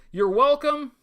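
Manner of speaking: high, loud mock-generous "You're welcome"; smug. Host playfully taking credit from his viewers, high and loud. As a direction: act like you've done them a favor.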